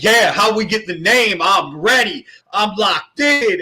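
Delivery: playing up mild anticipation; a touch of hyped-up readiness; mock eagerness. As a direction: act keen, slowing on the last words. Retells eager anticipation before hearing answer.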